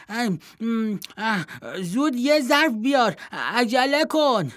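high, loud, mouth-full calling; excited shout. Acted. Vardilo calling his mother, thrilled, mouth stuffed with fruit. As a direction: call up with your mouth full of treats. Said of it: "فریاد زد".

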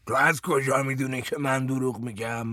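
defiant madman mimicking his interrogator; loud mocking echo. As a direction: throw the question right back in his face. Baghuth parrots the question back.

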